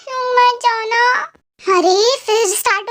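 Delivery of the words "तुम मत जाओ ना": tearful plea. Acted. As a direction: beg him to stay, near tears. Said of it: "फिर रोने लग गए जाते हुए". (रोते हुए मिन्नत)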